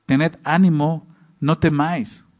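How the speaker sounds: "Tened ánimo" drawn out slowly and gently; slow, comforting words; slow, reassuring. Shown as a demonstration. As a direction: reassure a frightened friend, slowly. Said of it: "aquel que nos ama es aquel que está ahí".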